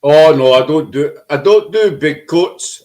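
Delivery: lightly put-on English accent. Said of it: "That's my English accent coming out".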